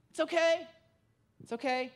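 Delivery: understated, measured calming voice; self-calming. Acted. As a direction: act out steadying yourself with deep breaths. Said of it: "Like, right, deep breaths".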